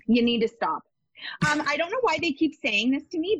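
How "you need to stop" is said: breathy whispered urging. Real, not acted. Psychic whispering advice to the scattered client. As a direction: drop to a whisper to drive it home.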